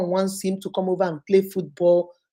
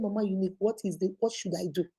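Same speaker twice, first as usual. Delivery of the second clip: pleading; 7 dB quieter, faster than usual. Retold or imitated. Husband pleading for advice.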